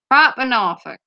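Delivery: broad Norfolk farmer's vowels; proper Norfolk accent. Shown as a demonstration. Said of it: "you have to say the words proper".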